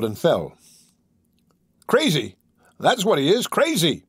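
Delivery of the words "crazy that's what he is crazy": sputtering. Acted. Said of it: "he sputtered".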